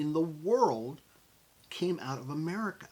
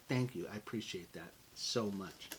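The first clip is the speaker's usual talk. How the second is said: soft, lower sincere thanks; gracious thanks; 5 semitones lower, 7 dB quieter than usual. Shown as a demonstration. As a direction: accept it humbly. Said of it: "and just say".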